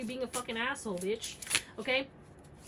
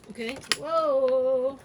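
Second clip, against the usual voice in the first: slow, louder, amazed; surprised whoa; 8 dB louder, much slower than usual. Real, not acted. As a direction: let the whoa stretch in wonder. Reacting to drawn card.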